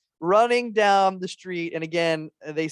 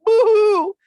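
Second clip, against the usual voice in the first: high, loud fake sobbing; mock crying; 13 semitones higher, 9 dB louder, slower than usual. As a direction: ham up a cartoon cry. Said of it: "when he's crying and he goes".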